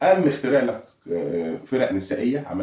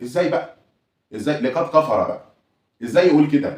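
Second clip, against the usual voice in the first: mock outrage; 5 semitones higher, 4 dB louder than usual. Mock outrage of rival fans.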